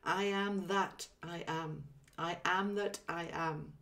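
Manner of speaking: slow, deliberate mantra; slow reverent mantra; slow affirmation. Shown as a demonstration. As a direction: intone it like a sacred phrase. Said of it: "very powerful".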